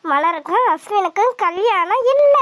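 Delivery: slow, savoured glee, last word drawn out; gleeful relief. Acted. Girl rejoicing alone that the wedding is off, gleeful. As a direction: draw it out in delight.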